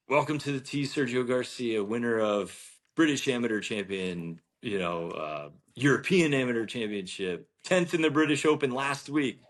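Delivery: announcer. Retold or imitated. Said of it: "And then they're like".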